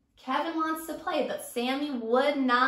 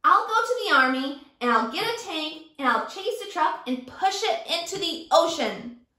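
higher, a bit louder boast; bully threat; 3 semitones higher, 3 dB louder than usual. Acted. Teacher as Sammy, boasting of a tank. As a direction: pile on the threats.

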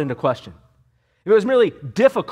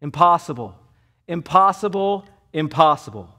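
each impossible hit firmly on its own; emphatic repetition. Shown as a demonstration. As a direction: hammer impossible home three times. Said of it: "should be thought of as very emphatic".

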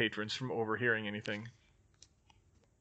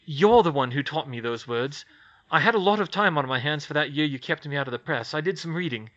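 a hint of a sly gossip reporter; lightly voiced journalist; 4 dB louder than usual. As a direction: Skeeter offering help with an angle. Skeeter voiced in story.

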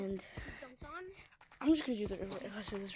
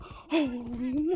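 surprised; 2 semitones higher, 7 dB louder, slower than usual. Real, not acted. Near miss with the lava.

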